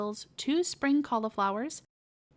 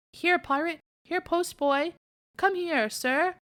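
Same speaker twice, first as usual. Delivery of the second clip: higher call to the dogs across the road; 7 semitones higher than usual. Acted. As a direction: call the hounds back to heel. Calling his greyhounds back.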